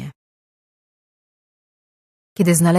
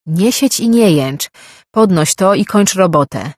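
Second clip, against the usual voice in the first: barked order; 3 semitones higher, 7 dB louder than usual. A narrator's reading. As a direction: bark the command down at him. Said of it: "rozkazał nadzorca".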